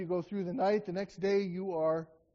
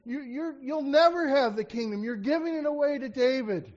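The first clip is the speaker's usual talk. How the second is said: angry father; 4 semitones higher than usual. Retold or imitated. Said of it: "He was angry".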